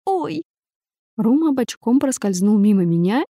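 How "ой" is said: high "oy!" yelp of pain. A narrator's reading. Heroine bangs her head on the bed, high pained "oy!". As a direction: yelp after hitting your head. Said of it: "взвыла".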